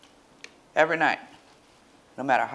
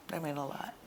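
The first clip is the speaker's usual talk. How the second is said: teary; 13 dB quieter, faster than usual. Real, not acted. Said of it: "I'm getting teary too".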